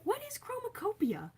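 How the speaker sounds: high, breathy whispered question; mock whisper. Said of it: "I was like".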